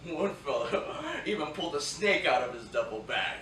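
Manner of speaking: chuckling as the story tickles him; laughing through the words. Acted. Soldier laughing as he tells the snake story. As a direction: laugh your way through the anecdote.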